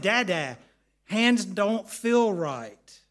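loud, very drawn-out mock wail; retold crying child. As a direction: imitate a little boy wailing to his dad. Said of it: "and he's crying".

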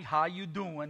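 Joey Tribbiani. Acted. Preacher mocking a TV ladies' man's advice, lightly imitated flirting. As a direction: drop the pitch for a light sitcom flirt impression. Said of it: "don't take your advice from Joey Tribbiani".

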